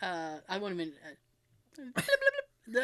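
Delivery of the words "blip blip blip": half-hearted turkey impression; failed turkey gobble. Shown as a demonstration. Host tries the turkey on the show, failed gobble. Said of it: "I can't even do the turkey".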